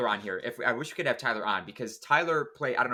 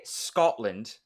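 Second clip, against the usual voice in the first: Scotland in a slow English-leaning accent; English-sounding attempt; 3 semitones lower than usual. Shown as a demonstration. Asking a Scot to judge, English-sounding accent attempt. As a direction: stretch Scotland with an English-style rounded O. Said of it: "that sounds English as opposed to".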